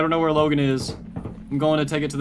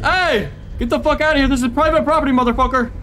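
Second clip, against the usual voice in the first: loud, high, furious yell; shouting at monster; 10 semitones higher, 7 dB louder than usual. Real, not acted. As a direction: scream it off your property. Yelling at chasing creature.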